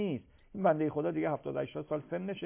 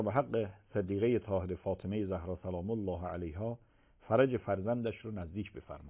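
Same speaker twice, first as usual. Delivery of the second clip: prayer; 4 semitones lower than usual. Real, not acted. Leads closing supplication.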